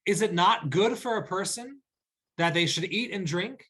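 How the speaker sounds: a rhetorical wondering question. Shown as a demonstration. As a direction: wonder aloud, lift on "it". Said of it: "with a questioning tone".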